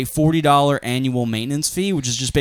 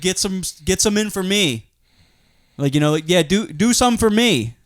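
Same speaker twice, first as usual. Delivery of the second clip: dad voice; 5 semitones higher than usual. Retold or imitated. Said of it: "he does, like, dad lines".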